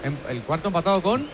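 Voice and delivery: talking with a pen in the mouth; words muffled round a pen; pen in teeth. Real, not acted. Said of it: "Sácate el boli de la boca".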